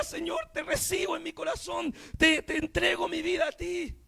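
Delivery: retold weeping surrender, lightly acted; imitated tearful prayer. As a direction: plead it as if through tears. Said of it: "entre llanto y lloro decía".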